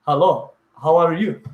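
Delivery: imitated Peruvian learner of English; lightly put-on Peruvian accent in English. Host answering request for a foreign accent, mild Peruvian English accent. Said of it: "this is Peruvians doing English accents".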